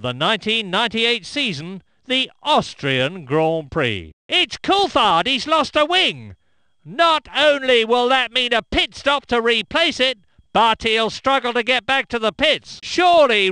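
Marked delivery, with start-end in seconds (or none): 4.3-9.2 higher, urgent call of the incident; excited commentary. Acted. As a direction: sound the alarm. Commentator reacts to crash.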